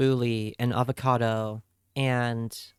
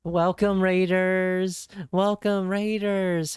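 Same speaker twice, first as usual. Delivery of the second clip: excited welcome; 4 semitones higher, slower than usual. Real, not acted. Welcoming incoming raiders.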